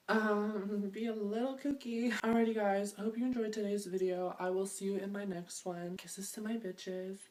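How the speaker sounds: loud, bouncy outro voice; loud sign-off. Acted. Vlogger signing off to viewers, loud and bouncy. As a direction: belt the goodbye to the fans.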